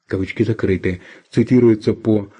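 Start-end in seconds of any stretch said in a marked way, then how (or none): 0.1-1.0 quiet falling aside for the quote marks; dictating. Real, not acted. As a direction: drop the voice to close the quote. Reads out quote marks aloud. (диктовка вполголоса)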